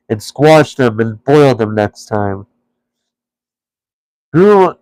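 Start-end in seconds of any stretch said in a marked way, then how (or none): 4.3-4.7 troll voice. A narrator's reading. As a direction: ask it like a greedy troll. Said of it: "said the voice".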